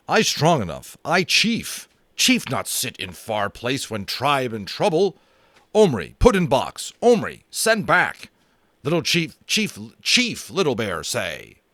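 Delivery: a wounded chief who refuses to stay in bed; Little Bear demanding to be sent back, loud and proud. Acted.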